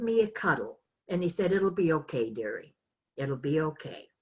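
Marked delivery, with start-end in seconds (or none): 1.5-4.1 soothing. Retold or imitated. Teacher comforting crying student.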